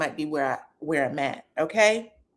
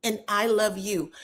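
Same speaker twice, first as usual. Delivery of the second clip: put-on baby voice; 3 dB quieter than usual. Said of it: "Like a, a baby voice".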